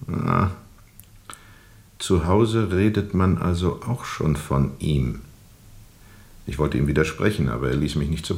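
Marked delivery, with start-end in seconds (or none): 0.1-5.2 knowing smile. Retold or imitated. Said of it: "mit diesem eigentümlichen Lächeln sagte er".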